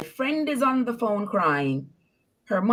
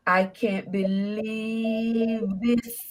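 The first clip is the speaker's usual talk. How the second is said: slow, drawn-out mock wail; imitated bawling; much slower than usual. Retelling the man's despair at being put out, slow imitated wail. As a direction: imitate his lament, stretching the words out. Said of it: "he started bawling".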